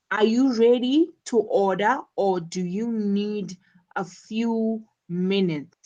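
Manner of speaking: measured choice, up on "order", down on "minutes"; choice-question intonation. Shown as a demonstration. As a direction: rise on "order", fall on "minutes". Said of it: "rising intonation on order".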